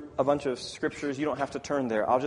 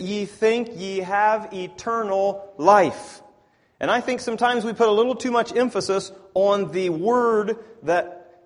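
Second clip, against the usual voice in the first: loud, higher emphatic sermon delivery; raised-voice preaching; 7 semitones higher, 10 dB louder than usual. Acted. Preacher stressing a word to the congregation, raised preaching voice. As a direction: drive the teaching home, louder and higher.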